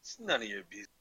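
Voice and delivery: stammered rebuff in a light Scottish burr; horrible Scottish accent. Acted. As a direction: fend them off in mock Scottish. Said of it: "back to my horrible Scottish accent".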